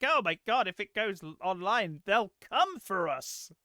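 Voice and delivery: hammed-up dread, drawing out the ending; mock alarm. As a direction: warn them in mock fright. Voicing panicked people at a meeting.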